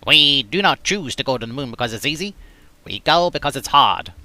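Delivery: a hint of Kennedy, unsteady; lightly voiced Kennedy speech; Kennedy impression. Shown as a demonstration. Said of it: "That's not very good Kennedy".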